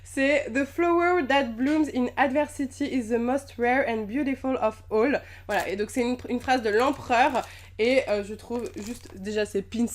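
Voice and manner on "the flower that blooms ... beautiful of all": put-on reading an English quote in a French accent. Vlogger reads the month's quote in French-accented English. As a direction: say the English line with a French accent, a little shy of it. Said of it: "ne jugez pas mon accent anglais".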